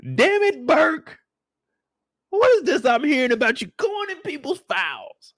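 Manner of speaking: captain yelling at Burke over the files; angry captain. Retold or imitated. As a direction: chew Burke out for snooping. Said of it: "you said".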